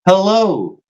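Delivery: high, slow, over-clear voicemail greeting. Shown as a demonstration. Man demos how people leave a voicemail, high and slow. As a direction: leave a stiff, careful voicemail. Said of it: "the voicemail voice".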